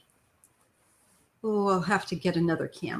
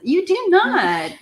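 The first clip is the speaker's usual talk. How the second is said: playful protest; 12 semitones higher, 9 dB louder, slower than usual. Real, not acted. Reassuring daughter on camera.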